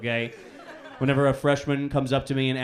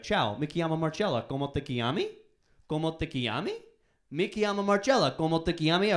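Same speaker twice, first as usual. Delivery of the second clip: lightly voiced Italian teacher, quiet; a hint of a teacher quizzing in Italian; Italian professor; 2 semitones higher, 3 dB quieter than usual. Professor chatting in Italian to the student. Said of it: "She'll be like".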